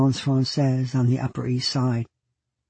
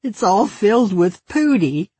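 put-on little girl voice; 7 semitones higher, 3 dB louder than usual.

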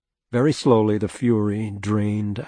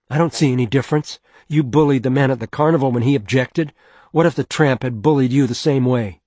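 angry; 3 semitones higher, 5 dB louder, faster than usual. Acted. Wife confronting him angrily.

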